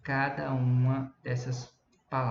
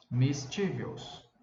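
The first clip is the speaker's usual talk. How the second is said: mischievous drawn out slowly, first syllable stressed; slow teacher's demo of mischievous, stressed on MIS; much slower than usual. Shown as a demonstration. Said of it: "dar uma entonação maior pra essa sílaba".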